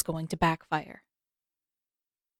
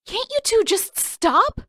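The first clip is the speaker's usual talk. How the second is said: shouting. A narrator's reading. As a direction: shout at them to finally stop. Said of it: "Katara shouted".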